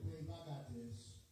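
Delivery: low, slow cocky attitude voice. Acted. Attitude stepping in for the speaker, low and slow. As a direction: drag it out low as smug attitude. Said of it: "And then attitude said".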